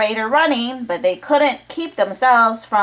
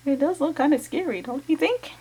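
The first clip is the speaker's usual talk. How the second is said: hushed; 5 semitones higher, 5 dB quieter than usual. Real, not acted. Scary monster aside.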